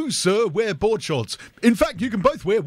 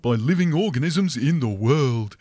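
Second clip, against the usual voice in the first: lower, rehearsed tour guide patter; 5 semitones lower than usual. Acted. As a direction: announce the sights to the group. Tour guide spiel, music.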